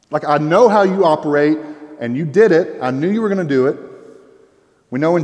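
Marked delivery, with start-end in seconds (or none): 0.2-3.8 angry Jonah. Acted. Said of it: "Jonah had problems with the character of God".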